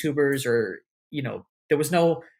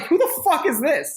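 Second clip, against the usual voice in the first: much higher imitation of baffled onlookers; mock incredulity; 12 semitones higher, 4 dB louder than usual. Onlookers asking about the unknown newcomer, imitated incredulity. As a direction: play an astonished crowd member.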